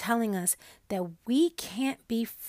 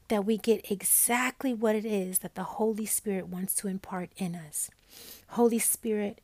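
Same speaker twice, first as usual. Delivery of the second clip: prayer. Acted. Leads an opening prayer.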